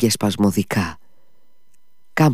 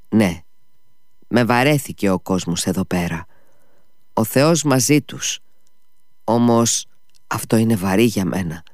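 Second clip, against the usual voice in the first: sighing in pain. Acted. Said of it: "στέναξε όλο πόνο".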